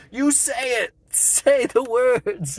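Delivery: loud, high insistent order; demanding shout. Retold or imitated. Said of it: "he tells him".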